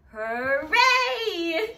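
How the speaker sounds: bright playful shout of hooray; cheerful shout. Pretend. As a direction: call it out for the kids to copy. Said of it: "and shout".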